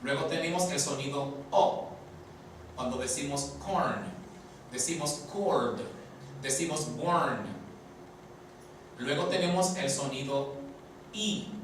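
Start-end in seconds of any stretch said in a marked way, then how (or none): 3.6-7.5 corn, cord, born with an open English O; pronunciación inglesa de la O; English O sounds. Shown as a demonstration. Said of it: "Esa vocal O suena como".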